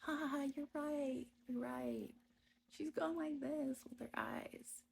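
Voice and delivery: high, mock-laughing voice imitating the wife; hammed-up jeering laugh; mocking laughter. Wife mimicking his wife jeering at her eyes, high mock laugh. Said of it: "The children started laughing".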